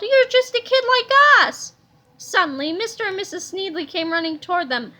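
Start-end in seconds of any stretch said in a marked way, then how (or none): 0.0-1.7 louder, higher protest; indignant. A narrator's reading. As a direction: protest loudly at a kid. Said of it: "said Harold".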